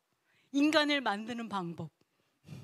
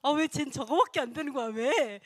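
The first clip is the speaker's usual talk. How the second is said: exasperated complaint, a bit louder; mock exasperation; 3 semitones higher, 5 dB louder than usual. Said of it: "막 이런 거". (짜증 섞인 투덜거림 흉내)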